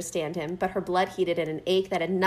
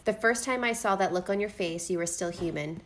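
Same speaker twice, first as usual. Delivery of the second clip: tender; 4 semitones lower, 3 dB quieter than usual. Acted. Reading Cassian's declaration tenderly.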